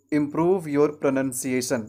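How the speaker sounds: slow example, "pronunciation" with short "nun"; correct pronunciation. Shown as a demonstration. Teacher gives an example sentence, slow model pronunciation. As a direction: read slowly, saying "pronunciation" with nun not noun. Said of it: "For example".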